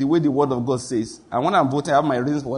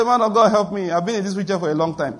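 mock pleading cripple; 3 semitones higher than usual. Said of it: "Sick people don't talk like this".

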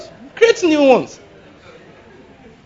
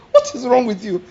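laughing disbelief; 6 semitones higher than usual. Retold or imitated. Mocking girls with teddy bears.

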